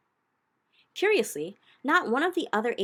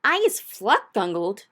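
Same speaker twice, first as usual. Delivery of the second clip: slow, much louder giant scream; 3 semitones higher, 10 dB louder, slower than usual. Acted. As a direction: scream as a squirming bound giant. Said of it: "screamed the maid masher".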